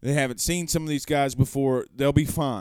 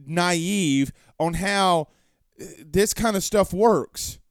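slowed; 3 semitones higher, much slower than usual. Real, not acted. Ranting at fans.

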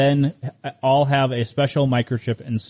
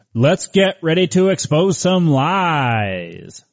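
ringmaster. Acted. Show intro, ringmaster-style announcement.

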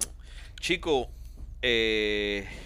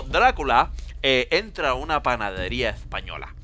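mock Castilian accent from Spain; Spanish accent. Comic retelling a Dracula joke on request, Spanish accent. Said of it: "ah, oh, con acento español".

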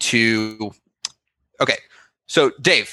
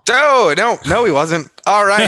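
high, loud alarmed protest; 8 semitones higher, 3 dB louder than usual. Real, not acted. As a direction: jump in, alarmed, to shut it down. Host alarmed at joke.

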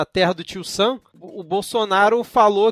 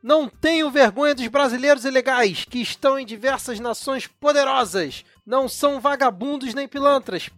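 a lightly voiced pastor reading, a bit higher; preacher Malafaia voice; 5 semitones higher than usual. Shown as a demonstration. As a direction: read it like a TV preacher, lightly hammed. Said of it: "você tem que ler o tweet com a entonação correta". (imitação leve de pastor pregando, um pouco mais agudo)

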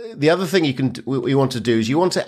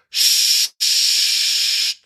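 long unvoiced shh sound; long shush. Shown as a demonstration. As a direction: shush steadily like steam. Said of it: "nice long".

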